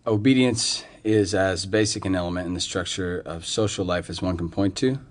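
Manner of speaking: even, measured reading from a page; careful read-aloud with little inflection. Acted. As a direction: read a formal draft aloud, evenly. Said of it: "read this for me. Aloud".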